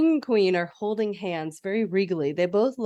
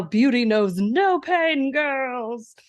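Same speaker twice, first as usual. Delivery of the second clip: stern stepmother; 6 semitones higher, 4 dB louder, much slower than usual. Retold or imitated. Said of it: "while she's telling them".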